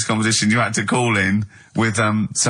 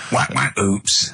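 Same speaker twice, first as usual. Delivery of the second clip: sound effects; much slower than usual. Shown as a demonstration. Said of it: "I can do sound effects".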